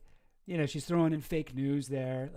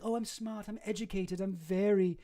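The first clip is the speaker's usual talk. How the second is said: mocking Ghislaine; 2 semitones higher than usual. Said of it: "she likes to say".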